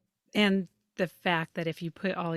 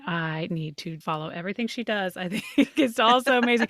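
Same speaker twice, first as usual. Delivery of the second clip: gushing; 5 dB louder than usual. Retold or imitated. Gushing fan quote, laugh.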